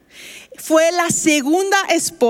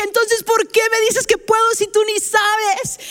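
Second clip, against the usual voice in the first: indignant retort; 6 semitones higher than usual. Retold or imitated. Labouring patient snaps at doctor.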